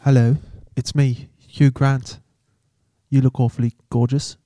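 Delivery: softly put-on charming Englishman; lightly voiced awkward English gent; mild English-accented come-on; Hugh Grant. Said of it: "Hugh Grant picking up the prostitute".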